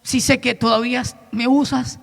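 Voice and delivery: understated retold lament; sincere confession. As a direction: confess weariness to God quietly. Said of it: "le dije".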